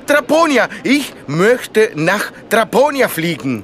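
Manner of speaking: thrilled, bursting out the name; excited. Acted. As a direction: cry out the choice with joy. Finally picks his dream destination.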